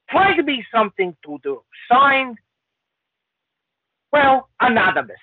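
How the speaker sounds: put-on Lithuanian Chinese accent, read aloud; a jokey Lithuanian Chinese accent. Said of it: "That was the best Lithuanian Chinese accent".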